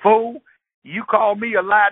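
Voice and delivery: high loud hothead picking a fight; hothead boyfriend. Retold or imitated. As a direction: bark it at a stranger. Boyfriend challenging a bystander.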